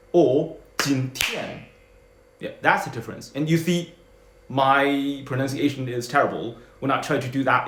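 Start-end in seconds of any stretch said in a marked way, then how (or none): 0.8-1.7 今天 slowed, second syllable stressed; 今天 with the stress on the last beat; English rhythm. Shown as a demonstration. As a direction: stretch and stress the end of 今天. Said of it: "in the English rhythm".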